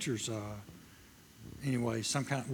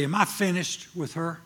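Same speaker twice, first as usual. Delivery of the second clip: calm, even voice of God asking; God asks it simply and evenly; God's plain question; 3 semitones higher than usual. Retold or imitated. God asking the preacher a plain, steady question. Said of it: "That's the way he talks to me".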